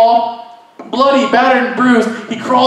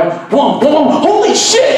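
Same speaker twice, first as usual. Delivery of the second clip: higher, louder startled cry; excited panic; 5 semitones higher, 3 dB louder, slower than usual. Retold or imitated. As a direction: yelp it as the car is chased. Car chase in joke.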